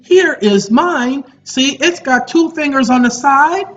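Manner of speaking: mock conversation. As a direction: act out a cheeky, deliberate retort. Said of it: "that's the conversation I'm having with them".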